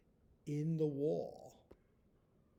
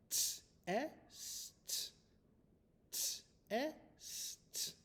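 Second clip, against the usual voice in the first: whispered dictation; 9 semitones higher, 4 dB quieter than usual. Shown as a demonstration. Teacher whispering a spelling word to students. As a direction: test whispered up high, softly. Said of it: "the word is".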